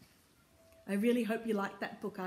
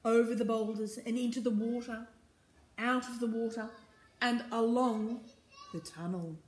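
emphatic, rhythmic reading; story narration; 4 semitones higher, 7 dB louder than usual. A narrator's reading. Reader hurries the fleeing crew back, story narration. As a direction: drive the refrain along phrase by phrase.

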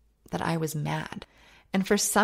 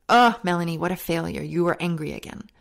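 self-scolding; 4 dB louder, faster than usual. Retold or imitated. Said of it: "I would always say".

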